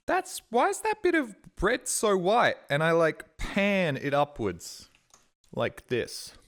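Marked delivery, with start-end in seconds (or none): 0.1-2.6 high, slow puzzled squint at the bread; suddenly high and drawn out, confused. Retold or imitated. To herself, spotting white bread on the sandwich, high puzzled wonder.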